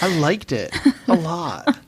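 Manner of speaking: Cosby-ish voice. Pretend. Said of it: "That sounded a little Cosby-ish".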